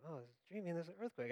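very soft, quick sleepy aside; acted dreaming. Sleeper noting an earthquake in a dream, dreamily soft. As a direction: murmur it as if still dreaming. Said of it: "I'm dreaming like".

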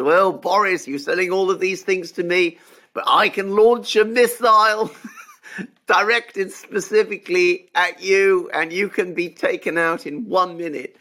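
playing a scheming supervillain, partly laughing; Blofeld impression. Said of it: "Ernst Stavros Blofeld double oh seven Spectre impression".

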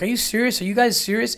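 high, shocked disbelief; incredulous girlfriend. Retold or imitated. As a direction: ask it as if you can't believe you got dumped. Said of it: "and she's like".

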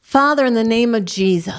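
earnest spoken prayer, steady and measured. Acted. Leads a prayer aloud.

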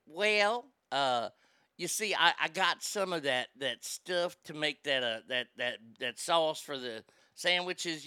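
slow, halting imitated Southern lady; Southern drawl. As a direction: hunt for the word in a Southern drawl. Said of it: "coming from a person from the South".

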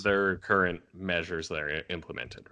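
glitchy robotic call audio; choppy bitcrushed connection sound. Real, not acted. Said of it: "You sounded really robotic there".

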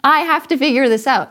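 mock exasperated rant, fast, with a laugh; half-laughing frustrated complaint. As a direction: play the stranded astronaut fed up and alone. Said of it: "he was so frustrated".

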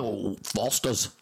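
drawn-out mock Aussie accent; Australian accent. Mock Australian answering about beer, slow Aussie accent. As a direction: play a slow-spoken Australian. Playing an Australian being interviewed.

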